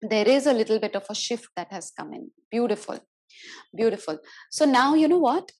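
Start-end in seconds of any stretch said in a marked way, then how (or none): 4.5-5.5 excited. Real, not acted. Sudden animated announcement.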